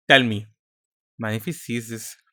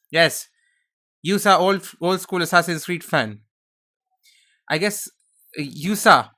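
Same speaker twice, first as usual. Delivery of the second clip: high goofy Gungan-style voice; higher, silly sidekick accent; Jar Jar Binks; 4 semitones higher than usual. Retold or imitated. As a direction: play a clumsy alien sidekick. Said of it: "I'm doing a Jar Jar Binks thing".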